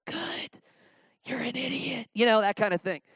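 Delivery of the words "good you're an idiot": deadpan wife. Retold or imitated. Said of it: "My wife would be like".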